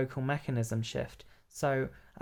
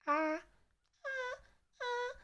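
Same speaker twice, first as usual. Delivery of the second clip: high, soft falsetto sighs; head voice; 8 dB quieter, slower than usual. Shown as a demonstration. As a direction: float up into head voice and crack. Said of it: "if I go higher than that".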